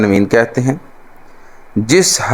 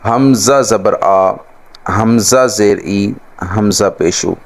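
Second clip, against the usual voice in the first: slow chanted letter spelling; traditional spelling drill; 3 semitones lower, slower than usual. Shown as a demonstration. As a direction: spell each letter out slowly. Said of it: "رسماً ہمارا طریقہ". (آہستہ آہستہ ہجے)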